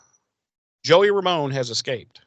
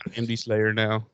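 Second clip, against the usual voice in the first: softer mock movie hijacker voice; Captain Phillips parody; 3 semitones lower, 6 dB quieter than usual. Host repeats the Slayer takeover joke, Captain Phillips parody. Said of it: "that actor".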